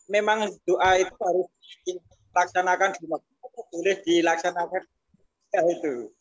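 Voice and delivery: choppy call audio cutting in and out; breaking up audio. Real, not acted. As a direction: voice dropping out on a bad line. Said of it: "saya tadi suaranya agak putus-putus".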